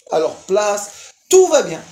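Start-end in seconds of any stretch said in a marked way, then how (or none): 1.3-1.8 high, loud insistence on tout; hammed-up everything's fine; mock reassurance. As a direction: push it out like a proud kid. Son reassures mother.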